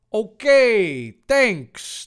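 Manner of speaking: high, loud, drawn-out reply; Dave. Acted. Dave thanks Thor, in a high loud voice. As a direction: call it out high and whiny. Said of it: "Dave replied".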